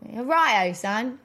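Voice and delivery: mock English accent for show; playful attempt at an English accent; put-on English accent. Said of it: "I do pretty good English accents".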